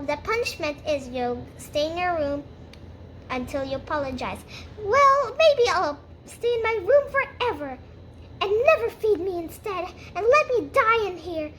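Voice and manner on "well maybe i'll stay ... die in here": defiant outburst. Acted.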